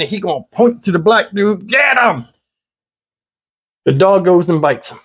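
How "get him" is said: mild mock command, pitched up; understated "Get him!" order; dog command. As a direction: imitate the officer sending the dog. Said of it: "call the dog with a command".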